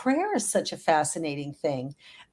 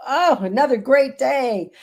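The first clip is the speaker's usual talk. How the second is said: higher and louder, buoyant morning cheer; bright cheerful greeting; 7 semitones higher, 7 dB louder than usual. Shown as a demonstration. Getting out of bed, showing how upbeat words feel: cheerful and lifted. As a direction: sing it out like a great day is starting. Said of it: "if you stand up and go".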